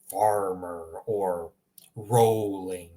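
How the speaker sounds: "Farmer" and "rolling" drawn out, R untrilled and W-like; slow, rounded English R in "Farmer" and "rolling"; English rhotic R. Shown as a demonstration. Teacher illustrating English R, slow W-like R in "Farmer", "rolling". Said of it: "sounds like there's a W in front".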